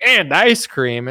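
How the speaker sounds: high, mock Biden voice; squeaky doddering old president; hammed-up Biden; Biden impression. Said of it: "he's like".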